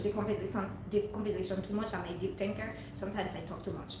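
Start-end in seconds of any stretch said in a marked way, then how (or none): none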